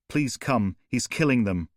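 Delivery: breathless, frantic pleading; a terrified witness pushing the words out; panicked caller. Acted. Panicked caller on emergency call.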